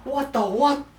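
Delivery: put-on loud, high Aussie accent, rising question; Australian accent. Admitting this isn't helping, then back into Australian accent. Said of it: "in an Australian accent".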